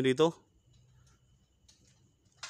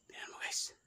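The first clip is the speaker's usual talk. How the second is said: hushed whisper to viewers; 11 dB quieter than usual. Real, not acted. Whispering to viewers in a haunted house. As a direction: whisper so nothing hears you.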